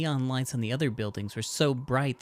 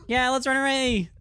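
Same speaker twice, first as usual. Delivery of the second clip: cute doll voice; 12 semitones higher, 5 dB louder than usual. Pretend. Player voices the doll Saratan.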